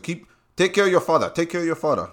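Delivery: lightly voiced older man urging; imitating store man. Old store man giving advice.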